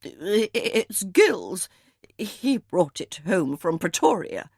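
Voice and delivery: a faltering, nervous stammer; a touch of fear in the voice; shaky voice. A narrator's reading. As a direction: stumble over the first words, a little shaken. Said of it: "spoke in a shaky voice".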